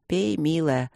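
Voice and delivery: ordinary delivery, nothing marked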